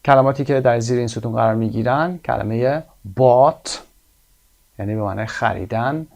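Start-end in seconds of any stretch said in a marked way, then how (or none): 3.2-3.7 "bought" with a long, open AW; slow, louder model of "bought" with silent GH; AW as in saw. Shown as a demonstration. Teacher introduces the word in the column, long AW. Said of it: "صدای آ مثل saw".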